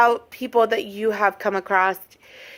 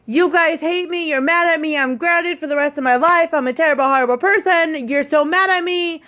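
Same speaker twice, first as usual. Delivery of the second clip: mock upset son; 4 semitones higher than usual. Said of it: "it would turn into".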